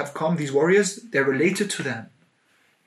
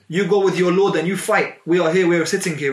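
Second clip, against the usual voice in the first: louder, higher, dismissive retort; mocking refusal; 4 semitones higher, 5 dB louder than usual. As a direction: throw the refusal back with disdain. Bani Israel refusing Moses mockingly.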